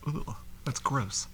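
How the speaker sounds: slow, soft disgusted groan of a line. Retold or imitated. Reacting to a love scene, slow and disgusted. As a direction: drag it out in mild disgust. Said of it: "and I was like".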